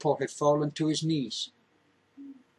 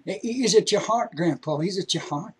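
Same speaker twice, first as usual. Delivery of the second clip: frantic hollering; 5 semitones higher than usual. Acted. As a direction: holler it in panic. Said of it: "And he's hollering".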